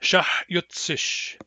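"shahyutsish" spelled out very slowly; "shahyutsish" stretched slow for learners; slow model word. Shown as a demonstration. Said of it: "you will pronounce them with me".

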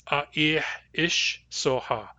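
A ih ish soha, said slowly; A ih ish soha with the strong-mood ending ish; Nuu-chah-nulth phrase. Shown as a demonstration. Teacher voicing Grace saying A ih ish soha slowly. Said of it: "strong mood".

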